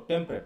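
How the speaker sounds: "টেম্পারেট" shortened to tem-pret; quick two-syllable form. Shown as a demonstration. Teacher showing fast pronunciation, "টেম্পারেট" as two-syllable tem-pret. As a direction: drop the middle vowel of "টেম্পারেট": tem-pret. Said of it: "দ্রুত উচ্চারিত হয়".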